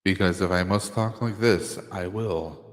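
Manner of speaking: low, soft ancient immortal voice; ancient weary immortal. Shown as a demonstration. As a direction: speak like a tired ageless being. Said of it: "Do I have to use my immortal voice".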